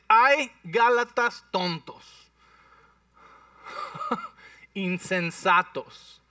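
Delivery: slow, loud rebuke stretched out; loud scolding Paul. Acted. Pablo regañando a los gálatas, lento y muy fuerte. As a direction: thunder at the foolish Galatians. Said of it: "por qué hablas tan fuerte, Pablo".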